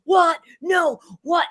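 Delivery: loud high "What? No, what?"; shocked disbelief. Retold or imitated. Podcast hosts reacting to each change, loud disbelief. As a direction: cry out in disbelief. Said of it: "we'd be like".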